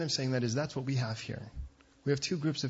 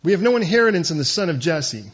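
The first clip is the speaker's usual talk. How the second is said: very loud, raised declaration; defiant rejection; 4 semitones higher, 10 dB louder than usual. Acted. The people disowning their king, loud and defiant. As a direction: proclaim it as a crowd's refusal.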